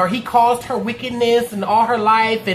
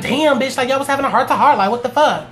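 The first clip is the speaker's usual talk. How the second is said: higher, quick incredulous outburst; shocked reaction; 4 semitones higher than usual. Retold or imitated. Viewer reacting to the walk-out, shocked. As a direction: react in mock disbelief, pitched up.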